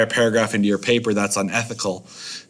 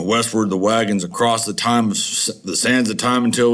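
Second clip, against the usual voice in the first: grand dramatic read. Shown as a demonstration. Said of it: "It gives that extra emphasis".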